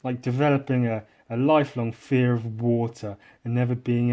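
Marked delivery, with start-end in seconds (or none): none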